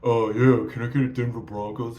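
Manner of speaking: high, loud sing-song customer voice; loud mock customer asking for a sports tattoo. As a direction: mimic an annoying walk-in. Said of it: "mocking customer request".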